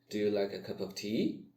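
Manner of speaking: tea lifted up at the end; rising question. Shown as a demonstration. Teacher showing a yes-no question with a rise at the end. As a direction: lift the last word tea, asking. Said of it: "high pitch in the end".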